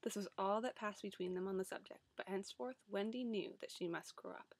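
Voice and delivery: reading aloud from a book; story reading. Acted. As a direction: read like a storybook. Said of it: "read a passage from a book".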